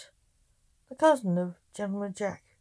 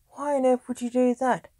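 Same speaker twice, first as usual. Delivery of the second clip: higher, louder astonished question; incredulous; 5 semitones higher, 6 dB louder than usual. A narrator's reading. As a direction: demand an explanation in disbelief. King astonished at the robbery.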